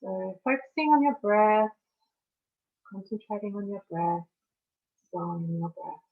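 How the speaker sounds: measured meditation guide with long pauses; guided meditation. Acted. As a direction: guide listeners through each breath, leaving space between phrases.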